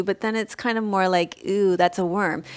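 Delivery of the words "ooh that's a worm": grossed out ooh. Shown as a demonstration. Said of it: "You can spell it E W".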